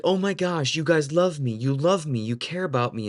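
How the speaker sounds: mock overjoyed, pitch lifted at the start; gushing revelation, retold; amazed realization. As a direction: imitate someone realizing they are loved. Woman's emotional revelation retold.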